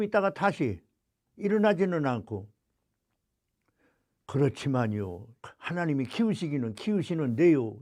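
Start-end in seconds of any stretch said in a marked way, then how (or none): 4.3-7.8 hesitant objection. Retold or imitated. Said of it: "이렇게 나오더라고요".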